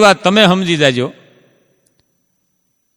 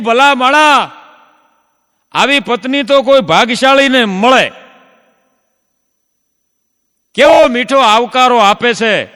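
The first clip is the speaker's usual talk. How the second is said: higher, eager admiring praise; 5 semitones higher than usual. Retold or imitated. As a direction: gush over the host's wife. Praising host's wife. (ભાઈ આગળ પત્નીનાં વખાણ, ઊંચા ઉત્સાહી અવાજે)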